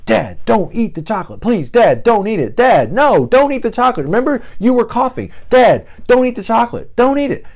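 put-on high, loud child's voice, begging; little daughter pleading. Young daughter begs dad not to eat chocolate, high pleading child voice. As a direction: play a small girl begging her dad. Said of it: "Olivia comes running up to me".

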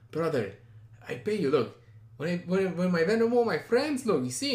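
imitated Armenian accent. Date reassuring driver he will pay, imitated Armenian accent. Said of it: "the accent goes from Armenian to fucking Spanish".

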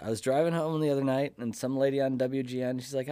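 ordinary talk

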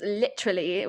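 light imitation of British English; British accent. Showing how Eamon says it, imitated British accent. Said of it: "with, like, a British accent".

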